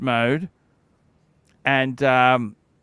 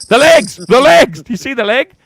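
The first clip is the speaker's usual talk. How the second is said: excited gawking; 7 semitones higher, 8 dB louder than usual. Real, not acted. Gawking at a stream girl.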